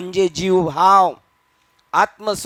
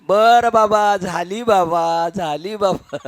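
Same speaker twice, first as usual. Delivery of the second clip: coaxing; slower than usual. Retold or imitated. God soothes the sulking devotee, slow and placating.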